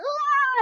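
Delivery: high retold scream; a brief hammed-up shriek; mock scream. Friend retells Dennis blinded by venom, mock scream. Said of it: "So he's screaming".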